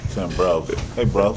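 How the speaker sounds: lightly mocked London street accent; mock British accent. Man mimicking how a British TV show talks, mock British accent. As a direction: put on a teasing British "bruv". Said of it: "Motherfucker talk like Top Boy".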